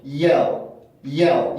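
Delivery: "yell"까지만 끊어서 발음; "yell"을 끝 L이 어두운 한 음절로; 첫 음절만 끊기. Shown as a demonstration. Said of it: "여기는 지금 L 발음은". ("yell", 음절 끝 다크 L로)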